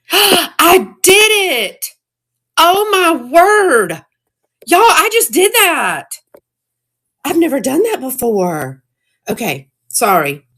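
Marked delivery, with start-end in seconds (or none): 0.1-6.2 gasping, high and slow, thrilled; gasp, then marvel that you pulled it off; real excitement. Real, not acted. Seller gasps after relisting the item herself, thrilled. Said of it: "Sorry, I got excited". 7.2-8.8 breathless, a little high, amazed; amazed at a first success; still excited. Real, not acted. Seller tells viewers of her first relisting, amazed. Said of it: "Sorry, I got excited".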